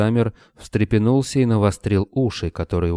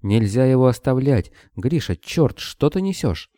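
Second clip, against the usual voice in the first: outraged protest; 6 semitones higher than usual. A narrator's reading. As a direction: refuse to leave him, voice climbing. Lena argues to save Kobylin.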